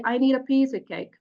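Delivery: peaks on need, piece and cake; NEED, PIECE and CAKE stand out, "a" and "of" weak; stress on content words. Shown as a demonstration. Teacher shows students normal sentence stress, stressing need, piece, cake. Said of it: "are peaks in my voice".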